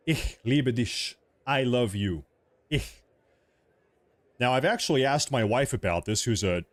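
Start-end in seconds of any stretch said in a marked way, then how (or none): 0.1-1.1 "Ich" with a scraped ch, said slowly; city pronunciation. Shown as a demonstration. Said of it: "In the big city, it's ich". 2.7-3.0 "Ich" with a scraped ch; city pronunciation. Shown as a demonstration. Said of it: "it's ich".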